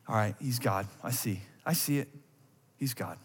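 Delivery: tag. Acted. Reminded in stillness.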